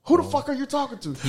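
retold confrontation. Father retelling confronting son.

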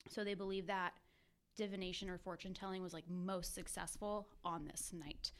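winded, talking between short breaths; out of breath, gasping a little mid-sentence. Real, not acted. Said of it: "very out of breath for some reason".

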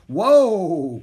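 long, loud, high-pitched holler; alarmed cry. A narrator's reading. Annie clutching the bucking horse's mane, alarmed cry. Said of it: "cried Annie, clutching the horse's mane".

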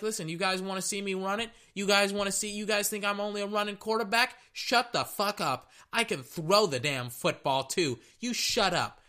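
high, fast trash talk; high defiant shut up; cocky team voice. Retold or imitated. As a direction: talk back to the doubters, high and brash. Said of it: "Baltimore is like".

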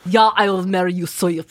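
lightly mocked Russian accent. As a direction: play the heroine with a Russian accent. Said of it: "I don't know why she's Russian".

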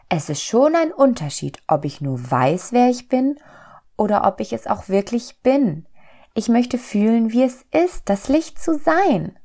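little soul. A narrator's reading. Little soul explains its wish to God, high and insistent. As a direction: plead in a small high voice.

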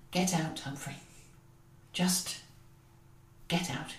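low, strained and held back; strained quiet. Acted. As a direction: hold back the feeling, quietly. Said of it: "The voice sounded strange, almost emotional".

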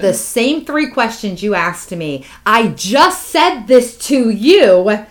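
retold fed-up patient's rising protest; angry confrontation. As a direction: confront them, hammering out each accusation.

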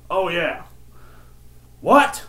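high shouted hype-man catchphrases; a rap hype man. Retold or imitated. Old man answers his daughter like a rapper, shouting. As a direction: imitate a rapper's ad-libs, jumping up loud. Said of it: "little John, calm down".

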